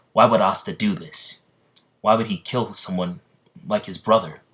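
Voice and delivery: loud accusing question. Acted. Voices accuse Asta in story.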